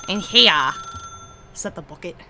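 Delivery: put-on British accent, first words punched, then dropping away; bad British accent. Player mocking the game's narrator, in an awful British accent. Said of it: "My British accent is just disgustingly awful".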